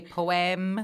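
Scottish "poem", drawn out slowly; Scottish accent. Shown as a demonstration. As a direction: say "poem" as a proper Scot would, unhurried. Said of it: "if you're properly Scottish, you say poem".

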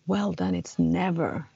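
slow, restrained mock roar; retold roar. Standing up to the teacher, understated retold roar. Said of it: "så bara ryter jag ifrån".

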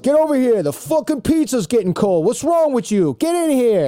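high, hollered Brooklyn Italian guy; Brooklyn Italian accent. Retold or imitated. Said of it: "local Brooklyn Italian guys".

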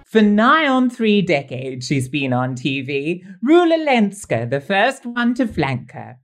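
theatrical rhyming verse recital; poem recital. Acted. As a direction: recite the couplets with a flourish. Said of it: "I've been busy authoring some rhyming couplets".

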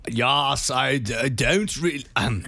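hesitant put-on German accent; attempted German accent. Told to be German in an accent game, faltering mock German accent. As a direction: fumble into a fake German accent. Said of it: "You are German".

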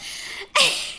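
silent, airy squeak of laughter; a high wheezing laugh; high breathless giggle; high breathy laugh. Real, not acted. Laughing at own story.

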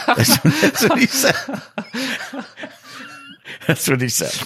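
high, breaking into real laughter; giggling through the punchline after the joke; laughing. Real, not acted. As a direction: laugh the words out as the joke lands.

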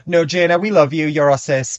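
sugar-coat it before the dig; mock sympathy.

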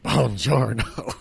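slow, drawn-out Italian greeting; Italian accent. Retold or imitated. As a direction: stretch it like an Italian. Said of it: "even that sounds more Italian".

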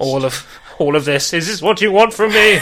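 a hint of a tortured leading man; brooding actor impression. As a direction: lightly ham up the anguish. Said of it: "doing an impression of all of them".

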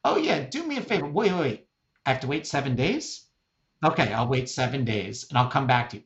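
lightly voiced mom puzzling through instructions; imitating elderly mom. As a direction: playfully act out a bewildered elderly mother. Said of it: "my eighty-year-old mom says the following".

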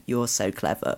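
benign praise. Shown as a demonstration. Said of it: "And then you go".

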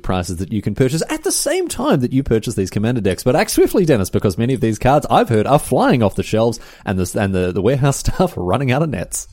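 excited salesman pitch; ad read. Acted. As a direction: hype the product like an advert. Sponsor read.

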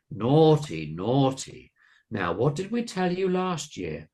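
high, swooping monster scolding; croaky scolding. A narrator's reading. Monster scolding Carolina for last year, croaky. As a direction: scold with big sing-song swoops. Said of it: "croaked Missus Cabbage".

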